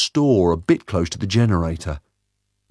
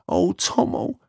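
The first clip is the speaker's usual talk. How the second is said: relieved sigh; 11 semitones higher, slower than usual. A narrator's reading. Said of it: "she sighed, relieved".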